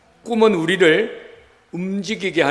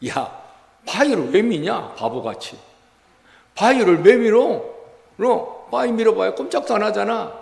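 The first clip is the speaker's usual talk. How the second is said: devil whispering; 2 semitones higher than usual. Acted. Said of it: "마귀가 속삭이는 거예요".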